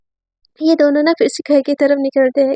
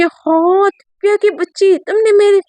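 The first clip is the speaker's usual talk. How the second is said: mock outrage; 4 semitones higher than usual. Amayra protests to Divya about turmeric on her dress, high mock outrage. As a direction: play it as hammed-up shock at a ruined dress.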